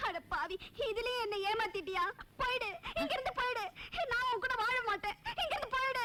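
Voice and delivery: indignant outburst, voice climbing; angry rejection. Acted. Bride throwing out the groom who tricked her, angry. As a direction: send the cheat packing, voice rising.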